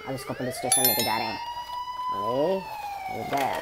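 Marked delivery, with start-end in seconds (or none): 2.1-3.6 much higher squeaky toy voice; tiny high cartoon squeak. Voicing a toy reaction.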